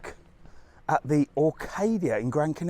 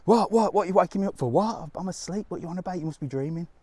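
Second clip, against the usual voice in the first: feigning just woken; 5 semitones higher, faster than usual. Acted. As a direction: play innocent, as if woken up. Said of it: "then pretend you're asleep".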